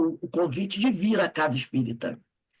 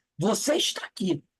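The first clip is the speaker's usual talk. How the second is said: ordinary delivery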